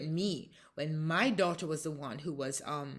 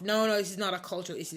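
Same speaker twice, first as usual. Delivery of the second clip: quick, louder dismissive retort; imitated brush-off; 2 semitones higher, 5 dB louder, faster than usual. Commissaire fans off the mother's cultural theory, imitated quick dismissal. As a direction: imitate someone hurriedly waving an idea away. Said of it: "she starts fanning me off".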